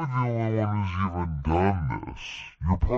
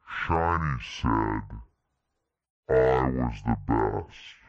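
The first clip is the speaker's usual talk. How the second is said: low solemn voice; 10 semitones lower, slower than usual. Retold or imitated. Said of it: "raise your head up and say".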